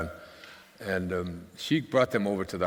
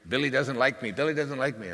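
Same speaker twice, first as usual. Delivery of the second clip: put-on child's complaint; 7 semitones higher than usual. Daughter complaining after school.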